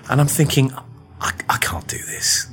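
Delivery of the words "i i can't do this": whispered panic. Retold or imitated. Panicked thought before big pitch.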